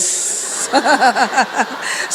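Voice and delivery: a short real laugh. Real, not acted. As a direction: laugh at your own joke. Preacher laughs at joke. (tertawa kecil)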